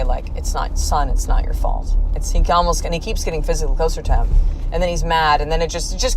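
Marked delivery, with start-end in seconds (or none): 0.4-2.0 near-whispered, tender reassurance; soft loving comfort. Retold or imitated. Therapist soothing the young man, almost whispered. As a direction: breathe it out gently like a father. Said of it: "in this very kind of soft, like, loving, comforting way".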